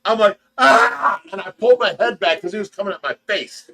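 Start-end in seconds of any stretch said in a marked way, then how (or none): 0.6-1.2 retold scream. Bitten by monkey.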